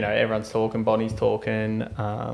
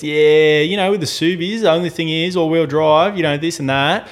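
lightly voiced salesman, higher pitch; salesman patter; 4 semitones higher, 3 dB louder than usual. Car owner talking up his Subie to the buyer, mild salesman patter. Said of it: "Like a salesman".

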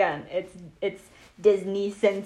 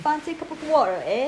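mock British accent, higher; playful put-on British accent; 4 semitones higher, faster than usual. Guest trading accent jokes with host, mock British accent. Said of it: "with a British accent".

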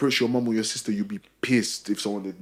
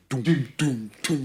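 imitated bass thump; slower than usual. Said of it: "the speaker's going".

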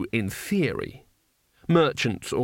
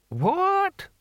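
put-on deaf old man. A narrator's reading. Old deaf barbarian keeps asking.

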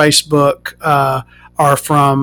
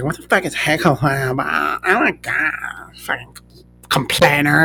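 muttered insult; 7 dB quieter, slower than usual. Retold or imitated. Waitress grumbling about the complaining customer, quiet muttering. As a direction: mutter it under breath.

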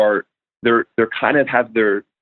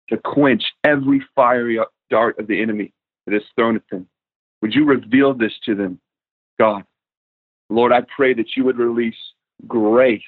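measured prayer with long pauses between phrases. Real, not acted. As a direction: pray earnestly for the listeners, leaning on key words. Leads closing prayer.

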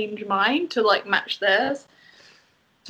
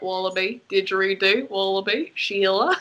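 mock Australian; 3 semitones lower than usual. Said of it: "like, Australian".

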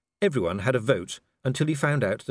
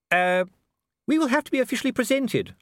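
hissed; 13 semitones higher, 4 dB louder than usual. A narrator's reading. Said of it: "Lady Sybil hissed".

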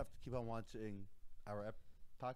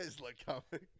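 laughing; 2 semitones higher, 3 dB quieter than usual. Real, not acted. Mocking a friend's phrasing.

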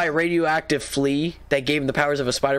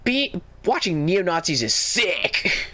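weird narrator voice; slower than usual. Retold or imitated. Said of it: "they say it in a weird way".

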